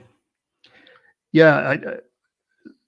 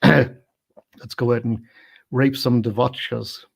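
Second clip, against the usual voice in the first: slow, drawn-out mock thug line; half-hearted menace from a film hooligan; mock droog quote; 3 dB louder, slower than usual. Film fan quoting the droogs, slow mock menace. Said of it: "they talk about the devotchkas".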